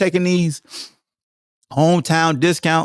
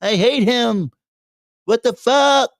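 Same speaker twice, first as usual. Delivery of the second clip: higher mock fan rant; bitter fan; 7 semitones higher than usual. Fickle fan dumping the player, higher mock rant. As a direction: sneer like a fan who turned. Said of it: "stink it up about two weeks".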